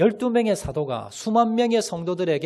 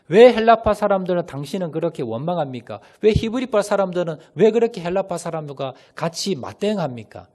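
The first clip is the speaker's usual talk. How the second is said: louder, acted scolding; mock rebuke; 6 dB louder than usual. Apostles hypothetically challenging both quarrelling groups, in mock rebuke. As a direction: take the quarrellers to task, raised voice.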